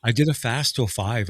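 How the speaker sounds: eating a cookie while talking; mouth full. Real, not acted. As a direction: talk through a mouthful of cookie. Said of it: "I'm crunching on a cookie".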